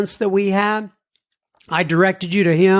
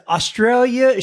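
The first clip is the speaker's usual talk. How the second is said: mock Aussie; 6 semitones higher than usual. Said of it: "She's an Aussie".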